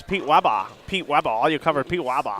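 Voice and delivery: badly imitated accent, Weber said as "Wabba"; mock a friend's complaint in a botched accent. Commentator retelling friends' complaint about his coverage, bad accent. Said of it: "That was a bad accent".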